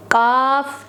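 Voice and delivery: thick qaf with a bounce; heavy qaf. Shown as a demonstration. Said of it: "ये पुर पढ़ा जाने वाला, मोटा पढ़ा जाने वाला". (काफ पुर, मोटा, कलकला के साथ)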